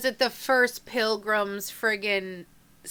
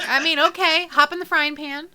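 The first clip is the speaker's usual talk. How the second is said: loud character voice; 7 semitones higher, 8 dB louder than usual. Acted. NPC voiced loudly in play.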